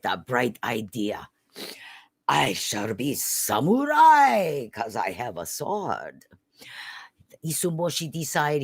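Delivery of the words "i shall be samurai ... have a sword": slow, loud proud vow; boy hero boasting slowly; grand samurai declaration. Acted. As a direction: announce it like a would-be samurai. Hero declares his grand idea.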